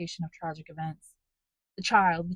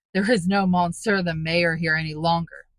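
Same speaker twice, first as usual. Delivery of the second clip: mocking sneer; 7 dB louder than usual. A narrator's reading. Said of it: "burst into a horrid laugh".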